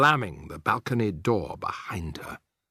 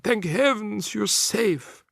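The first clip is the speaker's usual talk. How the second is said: relieved; 10 semitones higher, much slower than usual. A narrator's reading. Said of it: "she cried".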